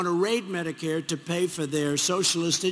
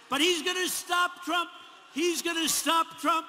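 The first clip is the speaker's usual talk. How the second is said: pitched up, mock ranting as Bernie; 7 semitones higher than usual. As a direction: parody a ranting old senator, higher. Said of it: "He's ranting and raving".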